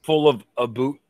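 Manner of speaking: thick, loud mock Canadian accent. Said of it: "like, Canadian accent".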